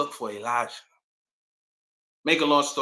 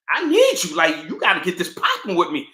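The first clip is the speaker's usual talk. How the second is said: mock pleading; 4 semitones higher, 7 dB louder than usual. Elijah pleading in retold story.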